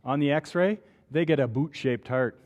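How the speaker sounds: lightly played Canadian accent on boot; a hint of Canadian vowels, hamming up boot; mild mock Canadian accent. Shown as a demonstration. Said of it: "throw on my full Canadian accent".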